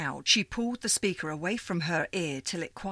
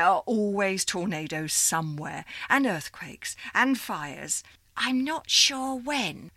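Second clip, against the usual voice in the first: put-on old operator lady; 3 semitones higher than usual. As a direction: greet her like a fond old supervisor. Miss Liza continues.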